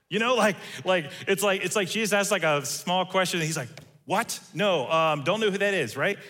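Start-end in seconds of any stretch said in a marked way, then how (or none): 4.1-6.0 mock panic, scrambling to deny; freaking out. Peter panicking as the girl names him, flustered denial. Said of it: "He's freaking out".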